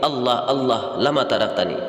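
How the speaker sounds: "Allah, Allah" with long open final vowels; measured Arabic reading of "lama taraktani"; Arabic pronunciation. Shown as a demonstration. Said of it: "dalam Arab".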